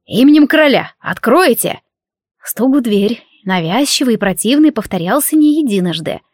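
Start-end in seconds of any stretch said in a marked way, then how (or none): 0.1-1.8 shouting. Acted. Soldiers banging at the door.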